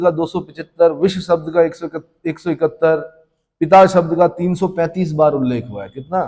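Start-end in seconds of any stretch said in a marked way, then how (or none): none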